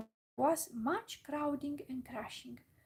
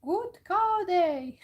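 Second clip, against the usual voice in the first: loud, high-pitched crow caws, drawn out; cawing crow; 8 semitones higher, 9 dB louder, much slower than usual. A narrator's reading. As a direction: caw the greeting like a big crow. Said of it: "He could not say it any better".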